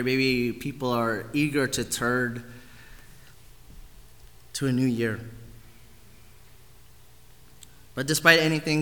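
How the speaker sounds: subdued, low-key prayer with long pauses; spoken prayer. Real, not acted. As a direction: pray sincerely on behalf of the group. Leads a prayer.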